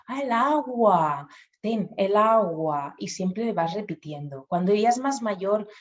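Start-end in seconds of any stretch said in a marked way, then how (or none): 0.1-2.9 modelling the right word. Shown as a demonstration. Parent repeating the word to the toddler, slow and warm. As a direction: hand the word back gently, slowly. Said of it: "y tú".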